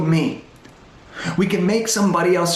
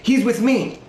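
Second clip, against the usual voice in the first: "he's" raised high and pushed, a nervous blurt; 5 semitones higher, slower than usual. Retold or imitated. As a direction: blurt "he's with me" to save him. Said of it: "I blurt out and I go".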